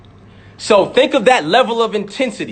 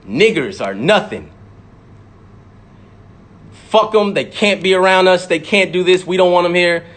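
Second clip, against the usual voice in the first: mock racist elder; 3 semitones lower than usual. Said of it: "They're teaching this".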